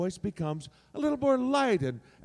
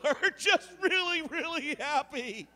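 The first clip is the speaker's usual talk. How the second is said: much higher, giddy happy voice; bubbly delighted voice; really happy voice; 11 semitones higher, slower than usual. Shown as a demonstration. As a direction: gush with silly glee. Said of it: "just add attitude".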